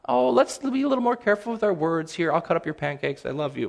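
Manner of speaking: light then softening to tender; calmly correct, then soften into love; gentle patient parent. Retold or imitated. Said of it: "It was not".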